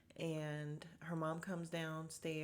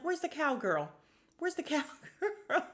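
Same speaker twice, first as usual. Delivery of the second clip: high, loud voice breaking into laughter; hammed-up high-pitched calling; imitated calling out; 10 semitones higher, 5 dB louder than usual. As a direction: call out high, imitating her, then crack up. Voices woman calling for cowgirl.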